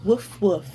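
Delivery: dog barking imitation. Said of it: "Hear the dog".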